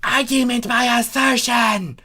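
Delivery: high, sharp and a bit loud; snapped retort. A narrator's reading. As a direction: bite back at him. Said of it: "Chrysalis snapped".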